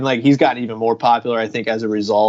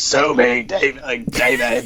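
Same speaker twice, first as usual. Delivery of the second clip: slow, throat-scraping raspy drawl. Imitating the coworker with the really raspy voice, raspy voice impression. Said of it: "That's a good impression".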